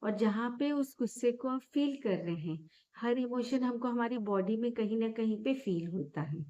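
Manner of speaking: calm, gently softened meditation guidance with long pauses; guided meditation. Real, not acted. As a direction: guide listeners gently into noticing breath and body.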